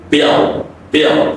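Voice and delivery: "bill" short, ending on a dark L. Shown as a demonstration. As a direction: finish "bill" with the tongue back for L. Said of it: "it's a dark".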